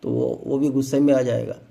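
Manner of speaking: low, soft, lazy shrug of a voice; lazy fat man. Retold or imitated. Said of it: "मोटा आदमी और ज़्यादा सुस्त होता है".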